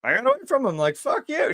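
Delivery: euphoric relief. Retold or imitated. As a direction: squeal out the triumph of getting away. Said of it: "euphoric moment of like".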